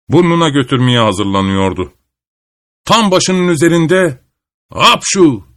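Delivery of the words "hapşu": narrated sneeze. A narrator's reading. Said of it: "diye bir hapşırık hapşırdı".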